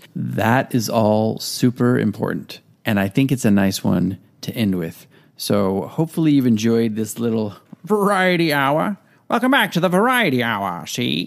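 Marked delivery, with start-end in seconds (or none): 7.9-11.3 put-on old-fashioned radio announcer voice, swooping and pitched up. Host closing this week's variety hour, in an old-timey voice. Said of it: "You can really only do that with the old-timey voice".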